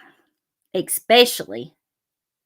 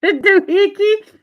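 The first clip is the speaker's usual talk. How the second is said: higher and louder, delighted; excited outburst; 10 semitones higher, 7 dB louder than usual. Real, not acted. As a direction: blurt it out thrilled.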